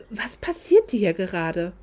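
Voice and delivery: hushed, bewildered whisper; stunned whisper. Acted. Isabella left at the table, whispering in bewilderment. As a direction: whisper it to yourself, lost.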